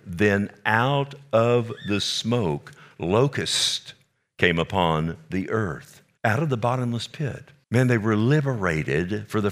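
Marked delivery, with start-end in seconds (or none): 0.1-6.6 Then out of the smoke read very slowly, each word drawn out; slow right down to let it land; slow, weighty reading. Shown as a demonstration. Preacher rereading the verse for the congregation, very slow. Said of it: "let me read that again".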